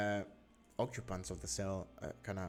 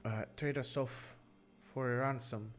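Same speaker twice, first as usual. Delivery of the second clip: a higher, worried mother's voice; anxious captive mother; 4 semitones higher than usual. Acted. Captive mother tells the adventurers how she survived, higher and anxious. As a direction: hurry through her story, frightened.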